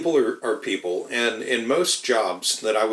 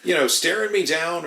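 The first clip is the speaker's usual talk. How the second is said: much higher, animated retelling voice; higher-voiced imitation of an employee gossiping; imitating a worker; 10 semitones higher than usual. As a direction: mimic a coworker complaining, pitched way up. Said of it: "they'd tell me".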